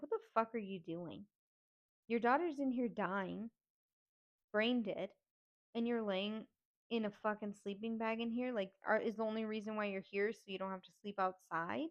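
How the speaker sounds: mildly angry retold scolding; pissed off. Niece confronting aunt in sleeping bag while daughter is dying, pissed off. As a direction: retell a disgusted telling-off with contained anger. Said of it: "I'm pissed".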